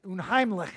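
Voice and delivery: Unheimlich ending in a rough ch from the back of the throat; throaty German ch. Shown as a demonstration. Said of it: "Get the throat at the back".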